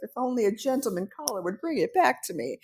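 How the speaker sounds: breathless swooning damsel, lightly done; Disney princess. Pretend. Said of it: "a Disney princess".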